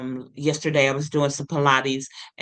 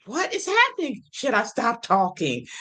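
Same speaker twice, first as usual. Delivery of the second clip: high panicked thoughts; 7 semitones higher than usual. Retold or imitated. Her panicked inner thoughts.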